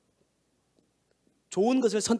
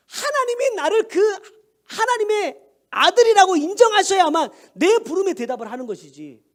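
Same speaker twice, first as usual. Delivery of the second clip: raised, emphatic sermon voice; preaching; 8 semitones higher, 6 dB louder than usual. Acted. Pastor urging the congregation about God, preaching at full force.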